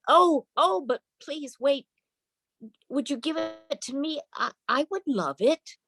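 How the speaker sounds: put-on high small girl's voice, pleading; pleading little girl. Little girl begs her family to give her the dog, high and pleading. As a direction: beg like a little girl for the puppy.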